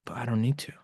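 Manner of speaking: soft whisper, the insight arriving; whispered realization. Retold or imitated. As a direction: breathe it out like a sudden realization. Revelation voiced as inner thought.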